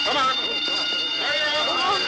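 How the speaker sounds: loud, high guard barking at the line; barked orders. Acted. Guard barks orders at the queue, loud and high. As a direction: bark it out to the crowd.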